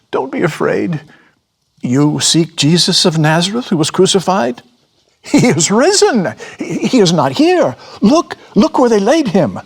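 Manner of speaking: high, loud joyful announcement; angelic young man. A narrator's reading. Young man telling the frightened women, high and loud. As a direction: proclaim it high and bright with joy.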